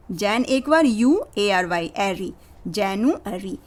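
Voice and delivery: slow, soft, chunk by chunk; slow broken spelling. Shown as a demonstration. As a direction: spell in parts then join it up. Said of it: "break हो सकता है".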